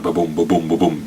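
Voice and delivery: low thudding mimicked heartbeat; low vocal heartbeat imitation; imitated heartbeat. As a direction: thump it out like a pounding heart. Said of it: "that heartbeat going like".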